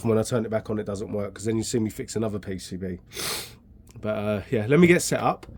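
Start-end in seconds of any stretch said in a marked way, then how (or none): 4.7-5.5 a bit out of breath from lugging gear; breathless after carrying tools. Real, not acted. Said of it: "I'm out of breath from carrying".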